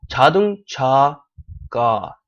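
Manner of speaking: छादुंग छाका said slowly, with a strong puff of air on each chh; aspirated chh. Shown as a demonstration. Teacher slowly demonstrating the aspirated chh in छादुंग छाका. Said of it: "aspirated consonant है".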